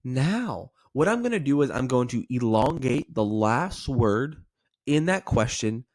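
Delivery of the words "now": "now" stretched and lifted upward; drawn-out, questioning "now"; upward inflection. Shown as a demonstration. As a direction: elongate "now" with a curious lilt. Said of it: "this is an upward inflection".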